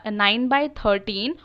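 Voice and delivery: "nine by thirteen" read very slowly, with "by" between the numbers; reading as numerals. Shown as a demonstration. Teacher showing pupils how to read the numerals, slowly. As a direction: model the numeral reading for the class. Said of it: "वो numbers में बोल रहे हैं तो क्या बोलेंगे".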